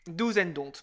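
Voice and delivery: English with a French accent. Real, not acted. Host repeating the episode's English phrase, French accent. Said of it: "avec mon accent français".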